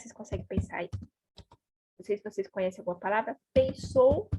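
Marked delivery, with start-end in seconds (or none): 3.5-4.3 "Pensou" with a loud, stressed final o; Spanish -ó ending. Shown as a demonstration. Teacher offering learners another verb, "Pensou" with strong stressed ending. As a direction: punch the last syllable of "Pensou". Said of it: "pode terminar em o".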